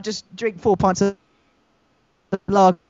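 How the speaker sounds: glitchy robotic robot voice; robot voice from a bad connection. Real, not acted. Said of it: "Massive robot voice there".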